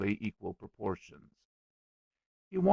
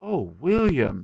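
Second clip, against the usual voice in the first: slow, louder swooping exclamation; anxious concern; 4 semitones higher, 7 dB louder, slower than usual. A narrator's reading. Little girl alarmed for her friend, anxious. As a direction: cry out in sympathy, drawn out.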